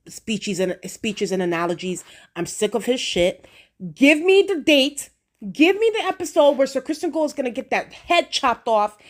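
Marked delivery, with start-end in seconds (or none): 3.9-9.0 eager demand. Real, not acted. Demanding Cole's death.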